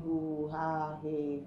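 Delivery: low, understated mimicry of moaning; imitated moans. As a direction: quote the moans dismissively, low. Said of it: "You didn't hear any".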